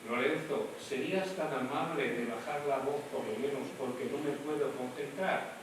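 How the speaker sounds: gentle social mask voice; polite request. Shown as a demonstration. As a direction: ask nicely, keep it polite. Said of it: "Eso sería máscara social".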